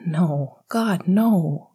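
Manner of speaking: hurried emphatic denial; all in one breath. Acted. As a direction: blurt it out without pausing. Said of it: "Remus said all in one breath".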